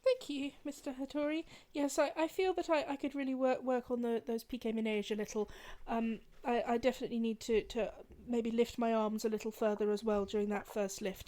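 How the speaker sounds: a soft, humble student answering her ballet master; deferential student. Acted. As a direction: murmur politely to your master. Student answers teacher in character.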